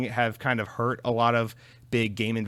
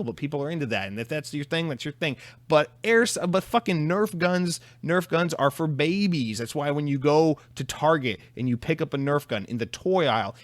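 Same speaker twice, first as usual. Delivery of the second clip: obnoxious dickhead commenter. Pretend. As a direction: sneer down at a grown man playing with toys. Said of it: "you could also be a total dickhead".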